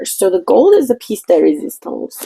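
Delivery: self-mocking French accent on the phrase. Lightly faked French accent while showing off gold paint. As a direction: ham up the French for a painting tutorial. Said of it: "Sorry again for my terrible accent".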